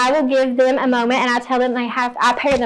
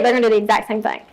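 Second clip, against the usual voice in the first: usual speaking voice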